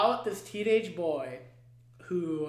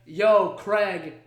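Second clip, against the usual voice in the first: louder, brash call to Craig; mocking call; 7 dB louder, slower than usual. Dog scolding Craig, brash mocking call. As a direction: bark it at him like a buddy. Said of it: "he's like".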